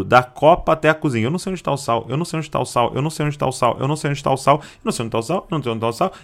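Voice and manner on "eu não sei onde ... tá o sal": softer, sulky repeated mumble; grumbling refrain. Retold or imitated. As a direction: mope the same complaint over and over. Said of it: "ele vai repetindo". (filho resmungando baixinho)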